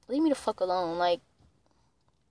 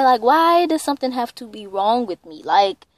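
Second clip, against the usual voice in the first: heated retort, pitch climbing and getting louder; pissed off; 3 semitones higher, 4 dB louder than usual. Retold or imitated. Granddaughter retorting to grandmother who asked what's wrong, pissed off. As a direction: push back indignantly, building to a raised voice. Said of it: "it just pissed me off".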